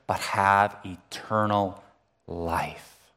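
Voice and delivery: slow, reverent verse recitation; scripture reading. Acted. Quotes John three sixteen.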